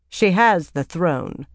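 icy and slow; cold. Acted. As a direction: say it coldly and unimpressed. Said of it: "as cold as ever".

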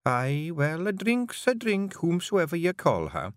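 soothing. Acted. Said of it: "said Jeanie soothingly".

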